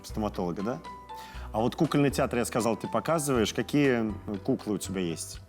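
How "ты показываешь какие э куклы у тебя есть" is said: normal talking voice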